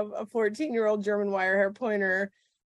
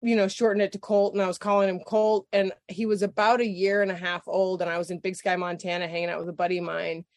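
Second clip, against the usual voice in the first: usual speaking voice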